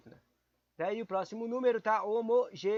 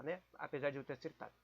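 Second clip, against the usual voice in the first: ordinary delivery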